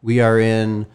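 slow, drawn-out announcer delivery; dramatic scene setting. Pretend. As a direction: set the scene grandly, slowly. Scene setting for journey back in time.

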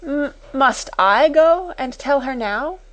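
high, timid, stammered question; panting dismay. A narrator's reading. Timid sister questioning her order, dismayed. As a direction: falter on the first word, pleading. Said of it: "panted Miss Amelia".

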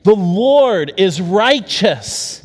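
bold declaration. Shown as a demonstration. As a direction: proclaim it slowly. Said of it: "Say it again".

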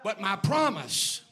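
rising to a loud preaching shout; God's booming answer. Acted. God answering Abraham, building to a booming shout. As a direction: build God's reply into a thunderous declaration. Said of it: "He said".

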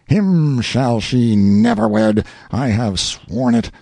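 slow, hammed-up melodramatic vow; melodrama villain. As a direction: swear it like a stage villain. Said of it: "hissed through his teeth, in unconscious imitation of a popular favorite in melodrama".

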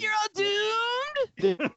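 high slow ominous drawl; Crazy Ralph voice. Shown as a demonstration. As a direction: draw out the doom warning. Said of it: "I can do his voice".

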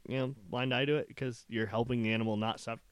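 talking through hiccups; words broken by hiccups. Real, not acted. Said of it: "Oh, I have the hiccups".

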